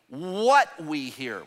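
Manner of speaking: "what" leaned on hard and drawn out; slow phrase, punch the word "what"; stress on what. Shown as a demonstration. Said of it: "Would y'all say what?".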